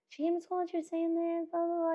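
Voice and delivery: 高めの声で柔らかく電話口の丁寧さ; tactful phone call. Retold or imitated. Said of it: "I called that poor mom and I was like".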